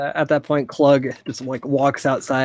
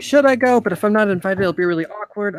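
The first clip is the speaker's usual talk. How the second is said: awkward unsure voice; 6 semitones higher, 4 dB louder than usual. Retold or imitated. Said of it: "It's that awkward thing".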